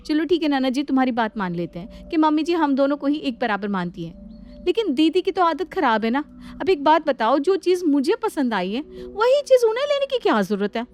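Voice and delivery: building indignant rant. Acted. Shalu vents to her sister-in-law about the elder one, indignant.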